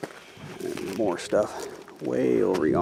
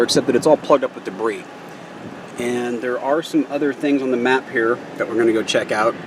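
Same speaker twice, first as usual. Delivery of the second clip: shouting over wind; 8 dB louder than usual. Real, not acted. Loud talk outdoors in Nevada wind.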